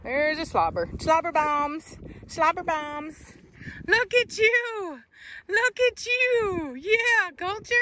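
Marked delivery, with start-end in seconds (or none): 1.0-3.3 higher, slow pet coo. Real, not acted. Breeder cooing at her drooling puppy. 3.9-7.8 much higher, slow squeaky coo. Real, not acted. Owner squealing baby talk at her new puppy.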